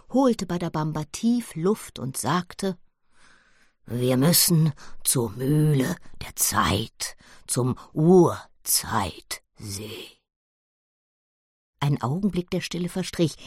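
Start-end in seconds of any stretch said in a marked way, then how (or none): 3.8-7.2 slow, lower, grave voice; solemn gorilla. Acted. Gorilla reveals the plan. 7.5-9.4 slow, breathy ominous whisper. Acted. Gorilla names dreadful place.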